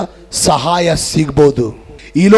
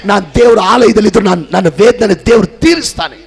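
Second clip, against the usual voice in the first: preaching refrain. Acted.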